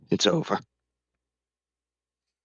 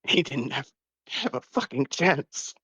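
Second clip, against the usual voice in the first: anguished curse; 7 semitones higher than usual. Acted. Moros cursing the gods.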